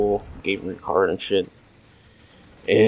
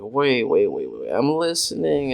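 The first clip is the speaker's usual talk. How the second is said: suddenly interested; 4 semitones higher than usual. Retold or imitated. Acting sudden interest in stories.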